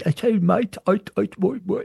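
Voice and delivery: stuttering Cockney accent, rough imitation; Cockney accent with a stammer on I. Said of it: "very pronounced, uh, Cockney accent of London with stuttering".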